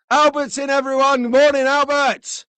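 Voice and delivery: high, loud cheerful greeting; excited welcome. Real, not acted.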